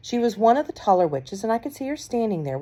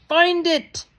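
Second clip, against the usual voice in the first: much higher, loud screamed order; 11 semitones higher, 6 dB louder than usual. A narrator's reading. Grand High Witch screams orders at the witches, high and loud. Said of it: "screamed the Grand High Witch".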